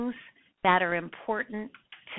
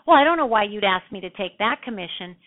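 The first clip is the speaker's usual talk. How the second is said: annoyed tone; 6 dB louder, faster than usual. Shown as a demonstration. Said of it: "you change your tone".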